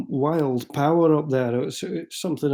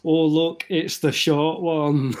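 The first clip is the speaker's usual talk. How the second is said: mocking shout; 2 semitones higher, slower than usual. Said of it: "and shout".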